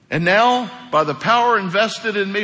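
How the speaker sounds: a touch of formal proclamation; mock officiant. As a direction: pretend to preside over a ceremony. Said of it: "That sounds like a funeral".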